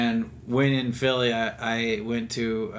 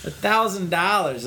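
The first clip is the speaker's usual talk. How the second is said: mock shocked; 9 semitones higher than usual. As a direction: squeak out the price in fake shock. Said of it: "And I was like".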